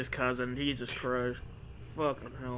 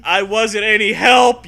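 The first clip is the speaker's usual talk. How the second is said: panic; 4 semitones higher, 10 dB louder than usual. Acted. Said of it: "you tell Zoe in a panic".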